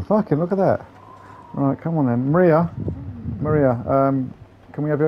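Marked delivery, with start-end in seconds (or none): 2.3-2.7 a raised call across the scene. Real, not acted. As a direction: shout her name to get her over. Calling teammate over.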